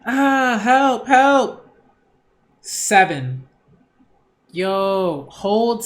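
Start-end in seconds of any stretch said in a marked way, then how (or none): 0.1-1.7 higher, louder mock cry for help, laughing. Voicing the victim in the game, hammed-up louder cry for help.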